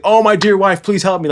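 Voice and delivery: hammed-up pleading; mock freaking out. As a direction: imitate a panicky husband begging. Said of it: "he's freaking out".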